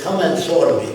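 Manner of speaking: imitated Arab-accented invitation. Arab group leader inviting the caller over, Arab accent. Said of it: "said in an Arab accent".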